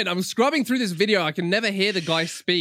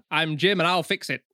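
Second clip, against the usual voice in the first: lightly done Northern English impression; catchphrase in a light northern English accent. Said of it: "he's kind of got a northern accent".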